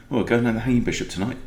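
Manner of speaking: light, quick Cockney; a hint of Cockney pub chatter; Cockney accent. Punter telling mates about a pub night, light Cockney accent. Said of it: "doing it in a Cockney accent".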